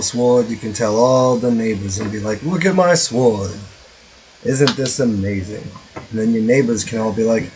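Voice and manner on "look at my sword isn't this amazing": put-on mystery Boston-Jersey accent. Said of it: "I don't know what accent that is".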